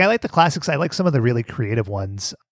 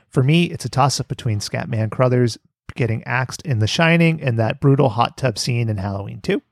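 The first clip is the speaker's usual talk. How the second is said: dictating. Shown as a demonstration. Reads listener letter with punctuation.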